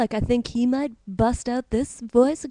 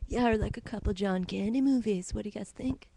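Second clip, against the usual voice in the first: put-on Stittsville accent; 2 semitones lower, 6 dB quieter than usual. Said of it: "The Stittsville accent".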